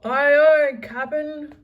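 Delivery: high, loud eager sailors; pirate crew reply. A narrator's reading. Crew answering their captain, high loud aye aye. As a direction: snap back like deckhands. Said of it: "they answered".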